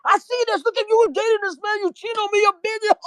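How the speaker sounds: high, mocking jealous accusing; jealous accusation. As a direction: throw the accusation in her face.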